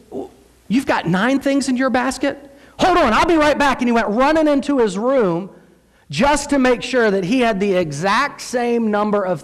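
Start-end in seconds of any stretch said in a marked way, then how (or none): 0.1-3.8 put-on high-pitched kid checking the count; imitated young son. Son comparing Easter baskets with his brother, imitated kid voice. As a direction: pitch up like an indignant child.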